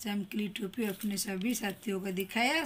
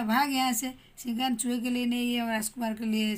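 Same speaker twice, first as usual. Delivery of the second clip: गुस्से में राजा; 4 dB louder than usual. Acted. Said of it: "उसने कहा".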